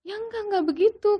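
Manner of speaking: imitated urgent reassurance; retold placating father. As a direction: voice a father calming his wife. Retold father calming mother.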